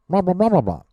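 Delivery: high, loud nonsense blah babble; Peanuts teacher voice. Shown as a demonstration. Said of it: "I sound like the, the teacher from Peanuts".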